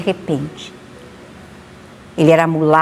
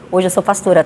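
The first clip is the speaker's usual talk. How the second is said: usual speaking voice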